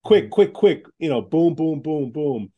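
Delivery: punchy staccato bursts, starting loud; brisk and emphatic; quick-fire. Shown as a demonstration. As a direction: rap out each word like a rapid checklist. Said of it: "exactly how C E Os want to get information".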